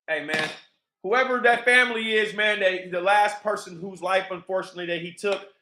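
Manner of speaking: ordinary delivery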